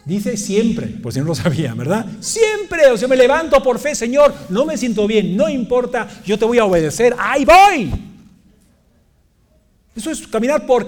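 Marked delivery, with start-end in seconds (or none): 2.2-7.9 loud, high declaration of faith; fervent preaching, building to a shout; carried-away fervour. Acted. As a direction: cry out to the Lord with resolve. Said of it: "Ahí me, me emocioné".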